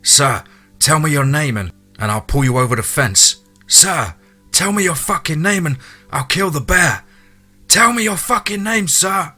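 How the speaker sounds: high, urgent shouted demand; yelling over pleading. A narrator's reading. Hunter demands man's name over his pleading, urgent rising yell. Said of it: "yelled out to him over his pleading".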